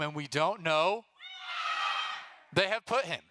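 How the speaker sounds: put-on animated Bible reading for kids; scripture reading. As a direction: read the passage out with energy. Reads Bible passage to kids.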